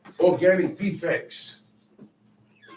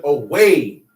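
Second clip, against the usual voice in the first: solemn God's rebuke; 3 semitones lower than usual. Retold or imitated. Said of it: "He said".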